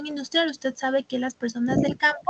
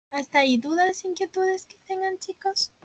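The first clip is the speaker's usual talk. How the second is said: losing her voice, strained; hoarse voice; 5 semitones higher than usual. Real, not acted. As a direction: speak through a sore, hoarse throat. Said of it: "estoy afónica ya".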